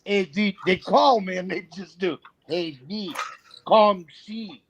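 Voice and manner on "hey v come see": drawn-out, teasing "come see"; mocking imitation. Friends from Mississippi teasing him about his phrase, mocking. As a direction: stretch out "come see" to poke fun. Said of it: "So they mock me".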